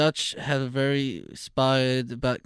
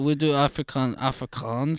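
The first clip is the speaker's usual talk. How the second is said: put-on Afrikaans accent. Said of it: "The next thing we'll be doing Afrikaans".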